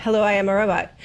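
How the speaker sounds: stiff robotic monotone; toy robot voice. Pretend. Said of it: "I'll be the robot".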